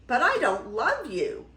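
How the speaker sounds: high, loud protest; crying out. A narrator's reading. Beauty refuses the beast's proposal, crying out. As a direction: blurt it out with mild dismay. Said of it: "cried Beauty".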